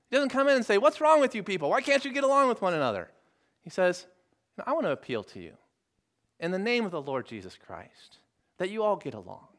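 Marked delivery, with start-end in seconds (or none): 0.8-3.1 scolding leader. Acted. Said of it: "That's not the way the Apostle Paul starts". 4.6-9.5 soft, gentle pleading; gentle appeal. Acted. Paul appealing to the Corinthians to get along, gentle and soft. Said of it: "What a different spirit".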